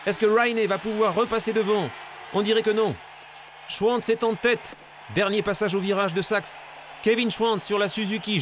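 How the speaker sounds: excited live race call; building excitement toward the finish; motorsport commentator. Acted. Live race call, final laps.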